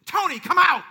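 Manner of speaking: loud summoning shout; retold scream. Jesus screaming at the preacher long ago, shouted summons. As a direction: burst out of the hush with a shouted call. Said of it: "he screamed at me".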